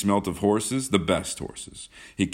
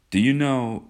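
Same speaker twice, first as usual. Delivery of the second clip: tentative opening, pitched higher; hesitant; 7 semitones higher, 5 dB louder than usual. A narrator's reading. John broaches a remark to Kismine, mildly hesitant. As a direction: begin with a touch of hesitation. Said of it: "began John hesitantly".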